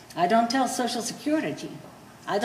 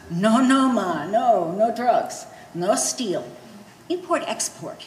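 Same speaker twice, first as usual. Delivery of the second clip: son reassuring; slower than usual. Retold or imitated. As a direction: insist like the son calming his mother. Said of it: "he say".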